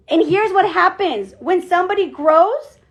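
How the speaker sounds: usual speaking voice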